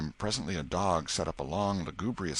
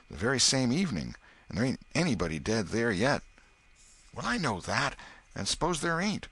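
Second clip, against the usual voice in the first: put-on higher, louder boy arguing superstition; boy telling omens; 5 semitones higher, 4 dB louder than usual. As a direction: insist you know how omens work.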